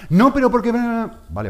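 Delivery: put-on high, loud whining kid; whiny child protest. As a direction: whine like a spoiled boy refusing. Child protesting father's discipline.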